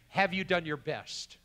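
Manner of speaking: slow, firm, intimidating question; intimidating admiral. Acted. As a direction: put it slowly, like a mildly intimidating admiral. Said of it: "How intimidating".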